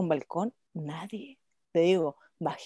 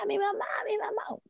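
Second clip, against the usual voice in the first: retold crying; 13 semitones higher, 7 dB quieter than usual.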